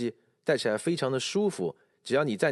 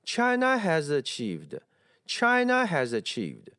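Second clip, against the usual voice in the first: "China" drawn out slowly before "has achieved"; imitating a learner's intonation; 3 semitones higher, slower than usual. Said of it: "一开头你是这么读的，仔细听一下你的语调". (模仿学生语调，把China拖长)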